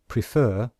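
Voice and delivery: prefer with the weight on FER; stress on second syllable. Shown as a demonstration. Teacher demonstrating stress for the class. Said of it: "can you hear that we stress the second syllable".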